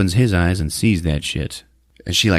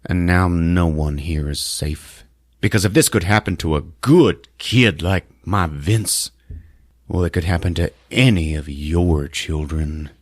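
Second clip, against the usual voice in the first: stage speech; 3 semitones lower than usual. Retold or imitated. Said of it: "Otho is on stage going like".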